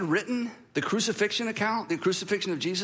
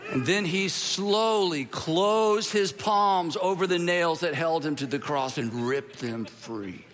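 slow, suspenseful telling that sinks low; dramatic story narration; 3 semitones lower, slower than usual. Acted. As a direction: draw out each move like an action climax.

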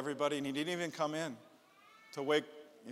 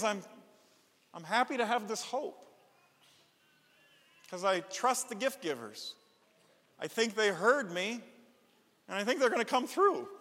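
put-on trusting child; 5 semitones higher than usual. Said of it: "what he was saying is".

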